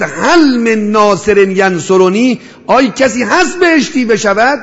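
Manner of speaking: a drawn-out call for help, slowly rising in pitch. Retold or imitated. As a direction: call out to anyone far off who might answer. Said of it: "فریاد زد". (فریاد کشیده و بلند)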